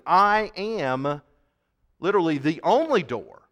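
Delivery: "only" pushed up in pitch, firmly stressed; emphatic declaration. Retold or imitated. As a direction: declare it with weight on "only door". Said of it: "He's saying emphatically".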